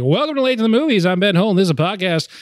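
upbeat host intro; announcer voice. Shown as a demonstration. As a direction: read it like a radio host. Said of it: "maybe something like".

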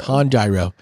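"Tanjiro" as tahn-JAI-ro, falling; teasing mispronunciation. Shown as a demonstration. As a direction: repeat "Tanjiro" with a stubborn "jai" in it. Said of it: "keep saying it that way 'cause it bothers you".

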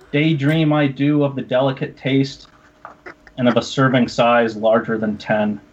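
grand, measured poetry reading; mock solemn poem. Host keeps reading his poem to cohosts, mock-solemn.

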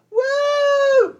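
high, loud party whoop. Retold or imitated. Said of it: "the other people go".

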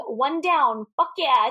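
lightly imitated triumphant whoop; half-yelled, excited retelling; mock excited yell. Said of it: "goes excitedly to the car yelling".

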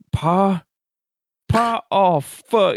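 high-pitched worried son finding his father; acted high call turning to dismay. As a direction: search for Pa, then break into alarm.

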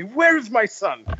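slow, high, mock-proud actress; mock tragic pride, high and slow; proud mother's line. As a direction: ham up a proud mother showing off her kill. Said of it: "the way she delivered that line".

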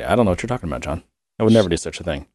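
ordinary delivery

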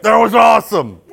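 loud mock Italian accent; hammed-up Italian impression. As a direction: do an excited Italian airman's accent. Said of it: "that was a good impression".

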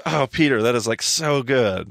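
lightly acted glowing approval; Jesus. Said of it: "and Jesus goes".

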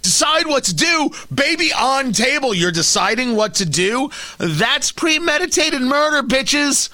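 furious radio host shouting down the quote; outraged shout. Real, not acted. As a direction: blast it back in disbelief. Outraged rant at abortion argument.

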